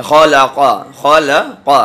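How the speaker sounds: खलाक़ा with ख and क़ full and heavy; full-mouth heavy letters. Shown as a demonstration. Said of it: "मुंह भर के पढ़े जाएंगे". (मुंह भर के पढ़ना)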